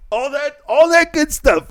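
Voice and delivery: high, giggling through the words; laughing. Real, not acted. Laughing at the fake sympathy, high and giggly.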